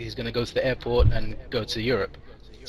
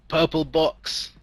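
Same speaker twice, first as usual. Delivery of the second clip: drawn-out, raised delivery; ominous dying words; 5 semitones higher, much slower than usual. Acted. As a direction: stretch out each word like a cryptic last message. Homeless man's dying words to boy.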